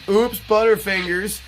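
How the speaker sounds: fake oops. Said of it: "It was like".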